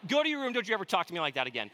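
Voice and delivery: quick, pretend-stern father's order; mock scolding. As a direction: rattle off a joke telling-off. Joking scolding of his son.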